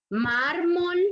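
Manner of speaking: "mármol" with a long stressed "már"; stress on penultimate syllable. Shown as a demonstration. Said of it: "En la penúltima sílaba".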